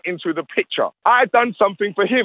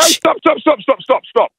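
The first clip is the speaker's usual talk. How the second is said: loud, higher repeated stop; shouting stop; 7 semitones higher, 5 dB louder than usual. Real, not acted. Cuts off the interviewer mid-argument, loud stops. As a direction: shut the interviewer down hard.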